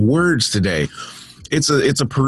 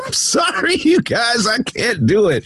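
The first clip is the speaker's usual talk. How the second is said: laughing apology; 11 semitones higher than usual. Real, not acted. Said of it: "I can't hold the commentary anymore".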